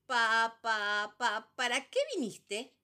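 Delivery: loud, stuck sputtering start; stammering. Acted. Daughter stammering her question to number three. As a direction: sputter before the question comes out. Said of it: "atorada como una moto que no arranca".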